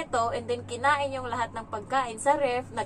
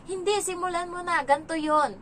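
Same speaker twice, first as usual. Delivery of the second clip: imitated insistent child; 7 semitones higher, 4 dB louder than usual. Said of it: "Sabi niya".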